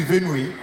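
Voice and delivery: "venue" mangled into ven-weh; mispronounced venue. Retold or imitated. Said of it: "you mean venue?".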